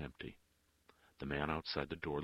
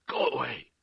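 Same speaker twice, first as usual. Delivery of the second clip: loud, high desperate shout; hoarse cry; 9 semitones higher, 10 dB louder than usual. A narrator's reading. Woman about to slam the door, crying out. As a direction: shout him off the doorstep. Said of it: "she cried hoarsely".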